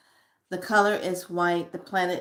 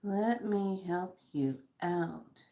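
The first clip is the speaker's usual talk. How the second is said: slow, softer; slow soft healing; 7 dB quieter, slower than usual. Shown as a demonstration. To viewers with issues, slow soft healing voice. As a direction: send it gently like healing energy. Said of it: "those of you that are having issues".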